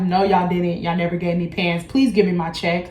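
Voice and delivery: level, unemotional retold request; deadpan, no rise in pitch; monotone. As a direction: keep it even and unbothered. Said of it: "I'm literally talking in a very monotone voice".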